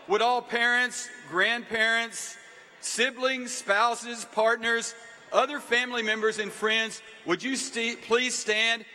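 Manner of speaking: rally the whole room to stand and cheer; calling out. Real, not acted. President rousing the packed stadium to applaud families, loud call.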